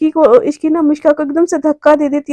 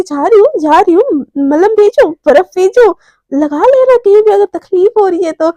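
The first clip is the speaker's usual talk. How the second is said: higher, lively parting jab; teasing retort; 4 semitones higher, 4 dB louder than usual. Acted. Romi teasing Mishka on being thrown out, cheeky. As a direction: tease them while backing off.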